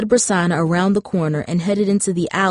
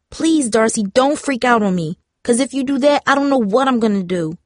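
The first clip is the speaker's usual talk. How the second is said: high, pleading and defeated; sad begging; 5 semitones higher than usual. Acted. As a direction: beg her, close to breaking. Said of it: "It was sad and defeated, almost like she was begging".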